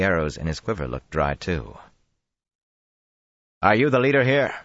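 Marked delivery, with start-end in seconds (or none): 3.6-4.5 loud, higher demand. Acted. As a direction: press him hard for an answer. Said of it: "Rand demanded".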